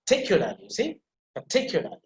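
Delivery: "particularly" with the r sounds left silent; bury the r in "particularly", like "pa-tic-yu-la-ly". Shown as a demonstration. Teacher telling students to bury the r, silent r in "particularly". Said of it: "try to pronounce it without a".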